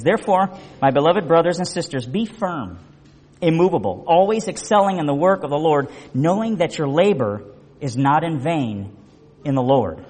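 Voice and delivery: measured, solemn Bible reading; scripture reading. Acted. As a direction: read Paul's words with weight. Reads scripture to congregation.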